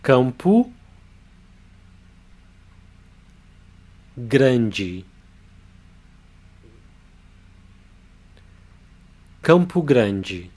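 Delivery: Campo Grande said slowly as KAHM-poo GRAHN-jee; slow Portuguese pronunciation. Shown as a demonstration. Teacher leads students in practising Campo Grande slowly. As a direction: practise Campo Grande word by word, then whole. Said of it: "Now let's practice".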